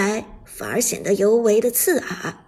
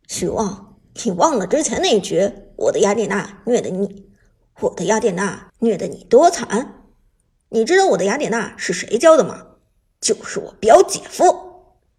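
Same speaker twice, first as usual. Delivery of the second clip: cold sneer; 3 semitones lower, 4 dB louder than usual. Acted. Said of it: "陈烨冷笑着说道".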